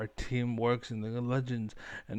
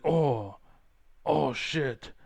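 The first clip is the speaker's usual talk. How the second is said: mocking Trump. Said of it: "And he's like".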